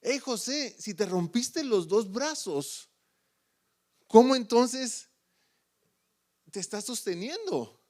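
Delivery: high, loud puzzled call up to the friend; shouting down the cliff. Retold or imitated. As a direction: yell the question in disbelief. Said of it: "le gritan".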